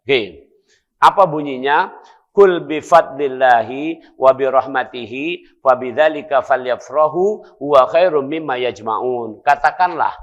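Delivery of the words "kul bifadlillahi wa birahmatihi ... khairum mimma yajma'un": loud, chanted recitation of the verse; Quran recitation. Acted. Preacher reciting scripture to the congregation, chanted. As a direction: intone the Arabic verse firmly.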